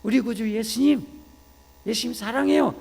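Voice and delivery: high, loud cry of love to Jesus; acted believer's fervent cry; fervent devotion. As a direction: call out adoringly to the Savior. Acts out newly opened believer's cry.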